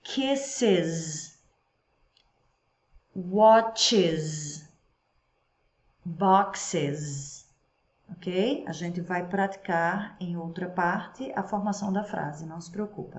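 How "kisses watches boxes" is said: slow, clear drill words with pauses; teacher drill reading; model words to repeat. Shown as a demonstration. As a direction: say each word for the class to repeat. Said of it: "So repeat with me".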